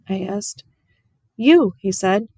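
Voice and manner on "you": high, loud, emphatic; heartfelt burst. Acted. The preacher telling Opal what her mama left, high and loud. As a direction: give her the answer with full heart.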